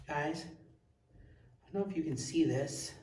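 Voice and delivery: whispered amazement; barely above a whisper; hushed awe. Real, not acted. Orb on the floor.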